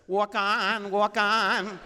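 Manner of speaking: high, loud mock pleading; high hammed-up plea to walk on. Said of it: "I'd be up here like saying".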